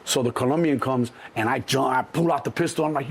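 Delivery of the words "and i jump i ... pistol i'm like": ordinary talk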